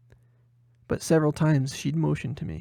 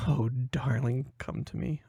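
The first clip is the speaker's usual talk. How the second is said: 1 dreamy inner whisper; 5 dB quieter than usual. Acted. Inner lovestruck thought.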